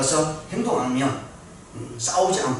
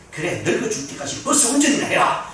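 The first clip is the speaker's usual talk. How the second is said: higher-pitched mock-angry taunt; retold angry passenger; 9 semitones higher, 3 dB louder than usual. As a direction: act out a fed-up passenger's jab, lightly. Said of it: "손님이 하도 열받으니까". (열받은 손님을 흉내 내는 높은 말투)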